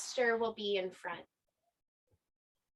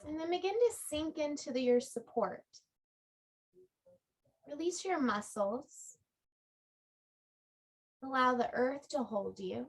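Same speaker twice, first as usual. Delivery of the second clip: calm yoga-teacher guidance with long pauses; unhurried body-scan meditation voice; guided relaxation. Real, not acted. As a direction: guide them gently into rest, phrase by phrase. Leads a restorative relaxation.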